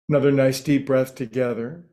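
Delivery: unhurried meditation teacher with long pauses between phrases; lightly held meditation-guide voice; guided meditation. Real, not acted. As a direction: ease listeners into stillness, phrase by phrase.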